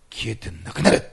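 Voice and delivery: loud command hurled at the sickness; forceful rebuke. Real, not acted. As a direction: drive the pain out with a shout. Rebuking pain in prayer. (病に向かって叫ぶ命令)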